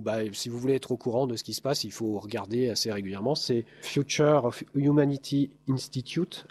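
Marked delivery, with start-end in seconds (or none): 3.8-6.5 slow, careful attempt at English pronunciation; French speaker's deliberate go at an English accent; self-mocked English accent. Real, not acted. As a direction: show off your "super" English accent, slowly. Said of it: "avec mon super accent anglais".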